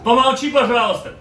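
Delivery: sharp hush. Real, not acted. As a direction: cut the noise off sharply. Snapping at the noise mid-command.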